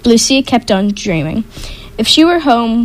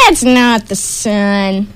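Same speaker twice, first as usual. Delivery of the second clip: troll howl; slower than usual. Acted. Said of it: "a troll howled".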